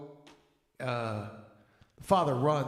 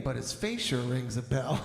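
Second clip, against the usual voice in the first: can't hold the laugh on the last line; laughing punchline. Real, not acted. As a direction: deliver the pun while breaking into laughter. Punchline told while cracking up.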